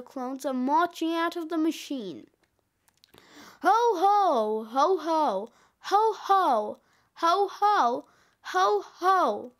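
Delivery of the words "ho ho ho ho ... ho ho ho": lightly voiced Santa ho-hos; rolling chant of jolly Santa laughs; a hint of hearty Santa. Narrator voices marching Santa clones.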